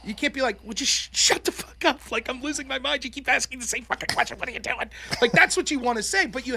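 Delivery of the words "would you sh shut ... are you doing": higher-pitched, imagined outburst of lost patience; mock exasperation. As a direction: act fed up with being asked repeatedly. Snapping at a repeated question.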